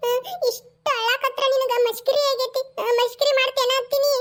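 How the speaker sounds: mildly tearful protest; a touch of weepy indignation; acted crying. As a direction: complain as if in tears. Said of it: "ನಾ ಇಲ್ಲೇ ಅಳ್ಳಾಕತ್ತೀನಿ".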